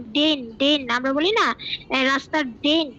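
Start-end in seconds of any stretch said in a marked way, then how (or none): 0.0-0.9 slow, separate ডেন, ডেন; ডেন as a distinct slow syllable; careful pronunciation. Shown as a demonstration. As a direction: sound out ডেন on its own, slowly. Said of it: "প্রনাউন্সিয়েশনটা খেয়াল করবেন".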